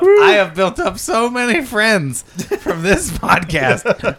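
slow laughing brag. Real, not acted. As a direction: laugh through the boast. Sarcastic boast while laughing.

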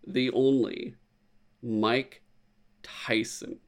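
name dropped to a soft whisper; whispered dramatic reveal. Real, not acted. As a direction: hush it like a big secret.

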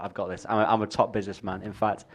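Donald Trump voice. Retold or imitated. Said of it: "Donald Trump's like".

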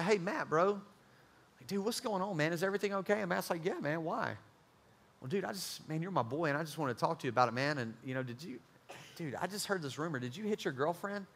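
soft, careful check-in with a friend; quiet bro-to-bro concern; hushed concern. Retold or imitated. Friend gently asking Matt.

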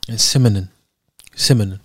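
CINNAMON with the N turned to M, "simminin"; mispronounced cinnamon. Retold or imitated. Mimicking the person's failed reply, "cinnamon" muddled into "simminin". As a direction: say "cinnamon" as "simminin", both times. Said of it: "I could just never pronounce it".

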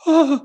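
mock gasp. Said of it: "you hear people like".

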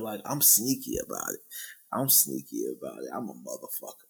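low, sly villain voice; scheming like a villain. Acted. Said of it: "Why do you sound like a villain?".

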